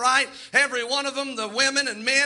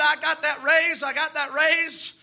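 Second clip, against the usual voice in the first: excited; 4 semitones higher, slower than usual. Retold or imitated. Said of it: "on the phone telling everybody".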